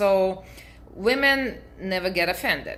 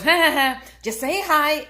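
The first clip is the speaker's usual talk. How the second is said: high, loud put-on cackle of a pushy guy; hammed-up stranger laughing, higher and louder; mocking stranger's laugh; 9 semitones higher, 7 dB louder than usual. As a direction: laugh it off like a pest who won't quit. Stranger laughing, pressing her.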